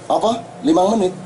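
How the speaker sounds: nada tinggi terkejut, pura-pura tak percaya; kaget. Retold or imitated. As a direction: staf hujan kaget mendengar lima menit. Staf hujan kaget ditawari. (suara kaget yang dibuat-buat)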